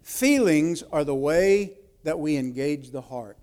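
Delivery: "Feelings" set apart, then the line said steadily; repeated for emphasis. Shown as a demonstration. Preacher repeating the key line for the notes, stressing Feelings. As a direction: hit "Feelings", then let the rest land. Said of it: "let me say this again".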